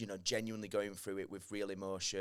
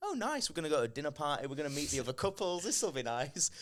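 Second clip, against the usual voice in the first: quick, higher mock-eager chatter; lightly acted cheerful optimism; naive excitement; 5 semitones higher than usual. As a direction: play up innocent anticipation, a bit fast. Retells his naive anticipation of dinner party.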